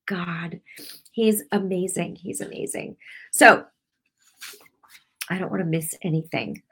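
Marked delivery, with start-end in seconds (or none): 0.1-0.6 soft reverent whisper. Real, not acted. Speaking of the goodness of God, whispered. 2.1-3.0 "He's amazing" repeated in a soft whisper; whispered echo. Real, not acted. Praising God to viewers, repeated as a whisper.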